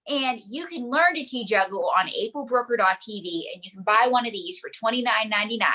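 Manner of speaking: pitchman selling a product; infomercial. Shown as a demonstration. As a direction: sell it like a TV pitchman. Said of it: "I sound like an infomercial".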